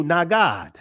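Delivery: Nagad said nah-GAHD, both vowels open ah; ancient Hebrew pronunciation. Shown as a demonstration. Teacher sounding out Nagad for the class, nah-GAHD. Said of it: "The ancient Hebrew".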